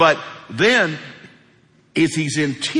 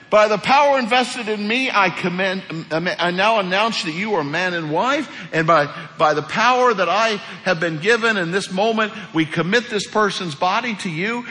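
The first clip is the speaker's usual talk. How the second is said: lightly put-on officiant, higher pitched; a hint of ceremonial proclamation; mock officiant; 4 semitones higher than usual. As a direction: pretend to pronounce at a wedding or funeral. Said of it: "oh, that'd be a wedding".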